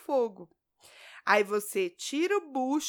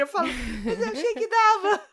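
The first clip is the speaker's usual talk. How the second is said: laughing; 9 semitones higher, 6 dB louder than usual. Retold or imitated. Laughing at her own mistake.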